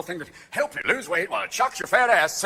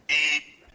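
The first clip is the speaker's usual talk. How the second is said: metal detector beep; 5 semitones lower than usual. Acted. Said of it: "go through the metal detector".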